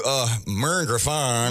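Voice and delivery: put-on slow, drawn-out Cajun accent. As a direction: drawl the name like a Cajun. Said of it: "That was my Cajun accent".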